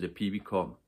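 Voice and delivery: ordinary delivery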